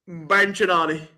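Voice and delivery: lightly French-accented band name. Shown as a demonstration. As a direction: say it with a hint of French. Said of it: "In your French voice".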